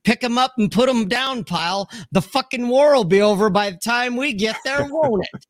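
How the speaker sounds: barking drill instructor; drill sergeant. Retold or imitated. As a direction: bark it like a boot camp sergeant. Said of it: "as the drill instructor said later".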